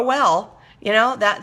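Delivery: normal talking voice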